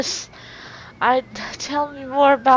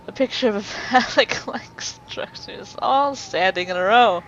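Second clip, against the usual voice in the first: laughing whisper. Real, not acted. Player laughs at the suggestive image.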